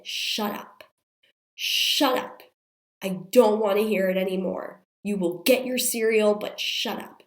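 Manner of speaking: re-enacted angry telling-off, bursts of force; losing it, retold. Mom scolding her toddler face to face, re-enacted anger. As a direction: act out a mom at the end of her patience. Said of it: "I lost it".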